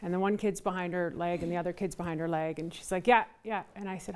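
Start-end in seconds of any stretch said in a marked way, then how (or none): 3.1-3.6 frustrated. Retold or imitated. Candidate retells a harried mother at her door, mildly frustrated. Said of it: "she was frustrated".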